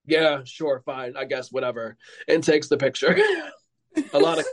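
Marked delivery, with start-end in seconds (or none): 0.1-1.9 fading, unbothered yeah sure whatever; mock the shrug of a bored star; bored dismissive. Imitating a bored star brushing off a fan, dismissive. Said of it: "she looks at me and she goes".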